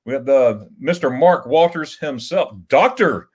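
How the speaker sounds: slow, drawn-out host welcome; grand announcer intro. Pretend. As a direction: announce the guest like a big entrance. Grandly introducing a chat guest.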